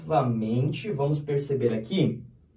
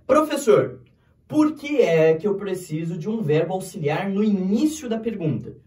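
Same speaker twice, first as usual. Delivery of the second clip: louder, higher, acted student question; 4 semitones higher, 4 dB louder than usual. Student asking the teacher why a question needs an auxiliary, questioning. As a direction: call out a puzzled question to the teacher.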